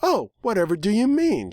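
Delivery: high, innocent put-on voice; coy. A narrator's reading. The purple mare teasing the protagonist, coy. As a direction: play dumb sweetly, feigning innocence. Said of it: "she asked coyly".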